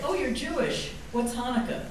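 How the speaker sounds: high, lightly mocking voice of a clueless classmate; naive college classmate. College classmates quizzing her about Hanukkah, lightly mocking high voice. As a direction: pitch it up like someone asking in earnest.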